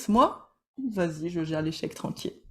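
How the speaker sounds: nonchalant, tout en lenteur; décontracté. Pretend. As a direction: frime un peu, cool et détendu. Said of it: "Sparrow Styles". (joue Jack Sparrow, tranquille et sûr de lui)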